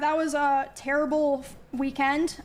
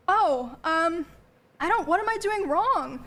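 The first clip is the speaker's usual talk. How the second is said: imitated clueless excuse, pitched up; mocking retold self-defense; mock innocence; 3 semitones higher than usual. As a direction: play his feigned innocence with a lilting rise. Acts out the ex's excuse.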